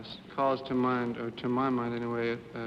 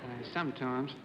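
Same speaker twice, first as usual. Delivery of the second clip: put-on Australian accent; 5 dB quieter than usual. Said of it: "That was my Australian accent".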